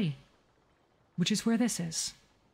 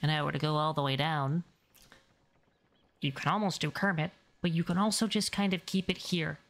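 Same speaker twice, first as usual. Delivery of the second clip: dropped pitch; 3 semitones lower than usual. Shown as a demonstration. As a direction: let the voice sink all the way down. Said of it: "drop the pitch".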